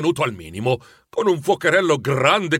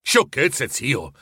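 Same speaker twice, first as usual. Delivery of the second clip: lighter echo of "Sciocchezze" in the nephew's own easy voice; playful retort; much slower than usual. Acted. Nephew teasingly echoing his grumpy uncle, playful retort. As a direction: tease it back good-naturedly. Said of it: "replicò il nipote".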